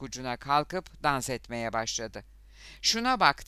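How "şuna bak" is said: high, loud jeering call; crowd shouting. A narrator's reading. Crowd mocking the dancing boxer, shouting. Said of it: "diye bağırdı kalabalık".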